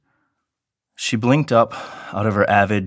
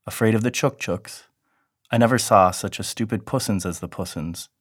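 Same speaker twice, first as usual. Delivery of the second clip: mocking baby talk; 4 semitones higher than usual. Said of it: "he said mockingly".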